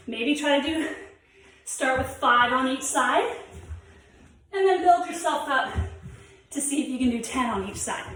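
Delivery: breathless after the exercise; out of breath. Real, not acted. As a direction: talk while still catching your breath. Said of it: "I'm out of breath from doing those".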